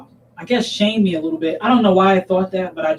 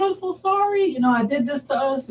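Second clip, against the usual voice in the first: very high re-enacted whimper; retold tearful apology; 8 semitones higher than usual. Mother apologizing to her daughter, re-enacting her hysterical crying. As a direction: imitate crying while apologizing, pitched up. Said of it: "I was hysterical crying".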